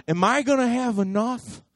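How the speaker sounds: building from plain to loud, high worry; mock panicked worrying; anxious worrier. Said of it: "You got a scarcity mentality".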